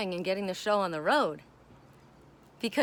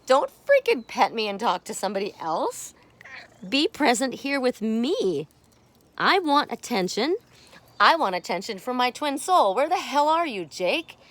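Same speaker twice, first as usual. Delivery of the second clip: voicing the cat; 3 semitones higher, 5 dB louder than usual. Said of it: "He says".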